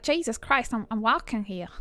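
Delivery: rough East Coast American accent; a hint of Boston street talk; attempted Boston accent. Shown as a demonstration. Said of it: "Like, Boston, Boston".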